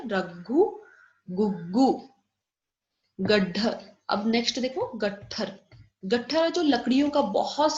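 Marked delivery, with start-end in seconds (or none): 0.0-2.1 रघु and गुग्गू said slowly and carefully, the घ aspirated; model pronunciation. Shown as a demonstration. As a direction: pronounce रघु, गुग्गू with a breathy घ. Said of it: "कैसे pronounce करते हैं?".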